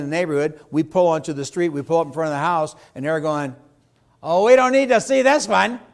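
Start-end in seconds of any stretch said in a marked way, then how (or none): 4.2-5.8 high, loud mock buyer brushing it off; mock buyer dismissal. Agent acting out buyers in the car, high and dismissive. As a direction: toss it away like a picky buyer.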